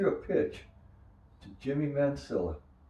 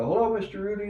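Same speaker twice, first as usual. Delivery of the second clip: put-on polite kid greeting; 11 semitones higher, 5 dB louder, faster than usual. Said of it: "you know, go".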